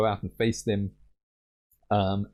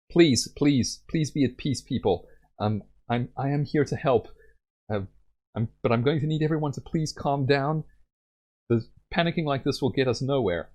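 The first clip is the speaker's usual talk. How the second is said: calming; 4 semitones higher than usual. Acted. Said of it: "hold up her hands and says".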